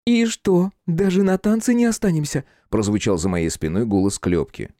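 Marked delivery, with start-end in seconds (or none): 0.1-2.4 put-on high, lively girl's voice; cheeky young girl. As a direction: tease them as a playful young girl. Girl Klyopka voiced by narrator.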